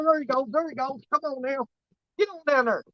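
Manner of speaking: soft, hushed coaxing; quiet coaxing. Real, not acted. Fisherman to the fish, coaxing it softly onto the hook.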